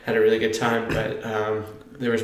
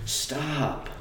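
escalating; 6 semitones higher, 9 dB louder, much slower than usual. Retold or imitated. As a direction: imitate a sleeper getting louder with every word. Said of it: "it was just, like, escalating".

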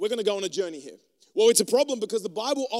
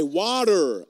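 American accent; 2 semitones lower, 5 dB louder than usual. Shown as a demonstration. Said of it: "It's not until I say".

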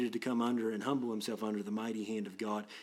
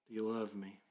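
a softer second asking; softer repeat; 5 dB quieter than usual. Retold or imitated. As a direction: let the echo fall gentle and soft. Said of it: "in some sense the word is".

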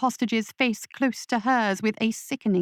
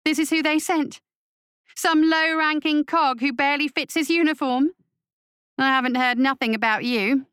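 sneering witch; 5 semitones higher than usual. Acted. Witch sneering at the captain sent to negotiate, high. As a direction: look him up and down and scoff. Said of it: "with an ugly sneer".

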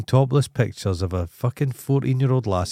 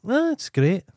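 high, lofty mock presenter; Radio 4 presenter voice; 13 semitones higher, slower than usual. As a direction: send up a gushing radio host. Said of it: "Radio four are like".

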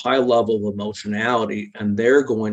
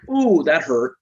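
higher, louder sympathetic ooh; mirroring parent; 5 semitones higher, 4 dB louder, slower than usual. Retold or imitated. Parent mirroring the toddler's hurt, sympathetic and louder. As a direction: mirror the child's pain back. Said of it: "if you go".

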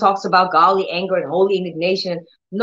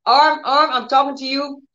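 commanding the arm; 4 semitones higher than usual. Shown as a demonstration. Believer speaking to a hurting arm, firm and raised. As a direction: order the arm to reach up. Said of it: "You say".

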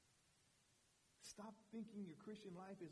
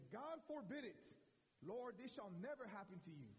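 Peter rebuking; 5 semitones higher than usual. Retold or imitated. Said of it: "began to rebuke him".

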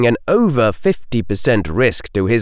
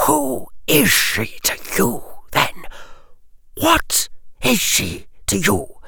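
quietly menacing lord; cold aristocrat; 14 semitones higher, 4 dB quieter than usual. Acted. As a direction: Lucius Malfoy questions the boy coldly. Lucius Malfoy interrogating Harry.

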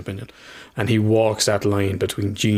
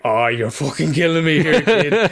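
half-laughing, half-crying plea, higher and slower at the end; choked up; 6 semitones higher than usual. Retold or imitated. Father to son after hugs, choked up. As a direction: let the tears nearly break through. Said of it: "And I was like".

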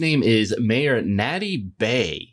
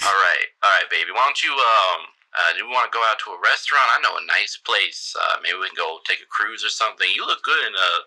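smooth-talking sleazy politician; flirty mayor voice; 3 semitones lower, faster than usual. Acted.

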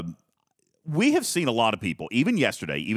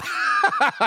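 high burst of laughter; 3 dB louder than usual. Real, not acted. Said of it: "I'm drinking a carbonated beverage".

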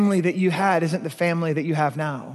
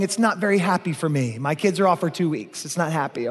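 mock weary parent; 3 semitones lower than usual. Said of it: "you're going".

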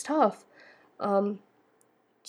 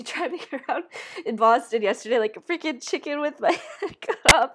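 amused, laughter breaking into the words; laughing while talking. Real, not acted. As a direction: laugh through your own silly story. Laughs at own frantic driving story.

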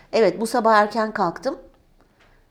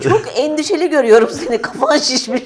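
louder, laughing teasing; 6 semitones higher, 5 dB louder than usual. Real, not acted. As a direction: tease through laughter. Teasing, laughing at swollen-head image.

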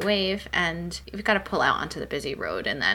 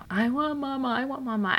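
put-on higher, whiny little-kid plea; imitating crying toddler; 7 semitones higher than usual. Retelling her daughter crying in the car, mock whiny child. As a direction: mimic a toddler wanting her mother. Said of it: "she was crying for you".

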